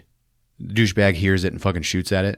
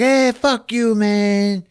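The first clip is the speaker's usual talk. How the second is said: mock thug; 13 semitones higher, much slower than usual. Lowrider driver yelling at Cobra, high mock thug. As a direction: sneer it out. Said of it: "The guy's like".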